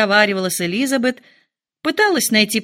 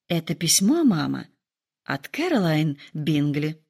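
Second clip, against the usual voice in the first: sadly; 4 semitones lower, 4 dB quieter than usual. Acted. Daughter telling mother bad news, low and sad. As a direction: let the disappointment weigh it down. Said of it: "грустно сказала Джейн".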